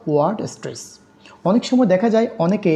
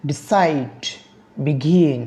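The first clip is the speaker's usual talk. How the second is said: ডিসাইড, বিগিন as de-CIDE, be-GIN; stress on last syllable; much slower than usual. Shown as a demonstration. Teacher listing verb examples, last syllables of ডিসাইড, বিগিন stressed. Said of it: "stress on the last syllable".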